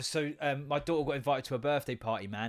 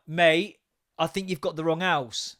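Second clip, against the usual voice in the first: calling out; 5 dB louder, slower than usual. Retold or imitated. Calling through the door at stranger.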